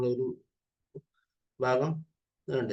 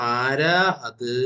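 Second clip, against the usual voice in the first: slow reading; 4 dB louder, much slower than usual. Shown as a demonstration. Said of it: "അത് ആരാന്നുള്ളത് ഇവിടെ എത്തിയപ്പോ".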